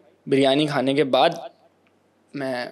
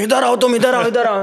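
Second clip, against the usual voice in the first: higher and louder, an aunty calling him over; mock stern calling; 8 semitones higher, 4 dB louder than usual. Aunty demanding he come over, imitated stern call.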